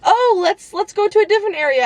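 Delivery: high, fast nervous redirect; quickly steer him away, high; hurried fake casual. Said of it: "I had to be like".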